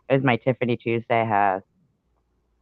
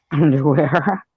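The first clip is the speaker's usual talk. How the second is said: higher, louder, drawn-out questioning underwear with a laugh; laughing disbelief; 4 semitones higher, 7 dB louder, slower than usual. Real, not acted. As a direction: laugh at the absurd word underwear. Laughs at odd chat word.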